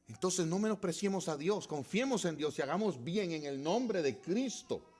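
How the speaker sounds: impassioned pulpit call; full-force preaching. Real, not acted. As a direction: urge the congregation on with force. Exhorts congregation at full force.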